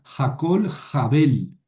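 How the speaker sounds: Jabel stressed on the last syllable, ja-BEL, as the speaker quotes it; quoting a wrong reading: final Jabel stressed on -bel. Retold or imitated. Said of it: "Decía".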